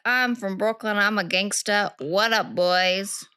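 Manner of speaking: a light Brooklyn tough-girl voice, mock swagger; lightly put-on Brooklyn gangster talk; Brooklyn gangster accent. Podcaster imitating a Brooklyn woman from Unsolved Mysteries, mild Brooklyn gangster accent. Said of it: "she talks like this".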